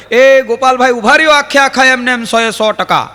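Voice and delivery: teacher calling out to Gopalbhai from behind, loud. Retold or imitated. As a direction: hail him down the street, loudly.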